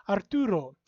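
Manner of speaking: Arturo with a tapped R, Latin vowels. Shown as a demonstration. Lecturer gives the Latin form of her name, R tapped. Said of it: "if you pronounce it in a more Latin way".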